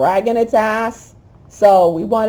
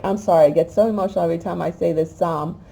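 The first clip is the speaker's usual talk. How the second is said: emotional; faster than usual. Real, not acted.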